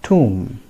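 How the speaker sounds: "tomb" as "toom", silent b; careful falling "tomb", ending on m; correct pronunciation. Shown as a demonstration. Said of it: "It is pronounced as".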